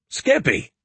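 high laughing cry of a name; laughing protest. A narrator's reading. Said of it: "I laughed".

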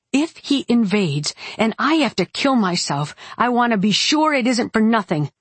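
a touch of exasperation, pitch climbing; demanding heroine. Acted. Narrator acts heroine's angry demand.

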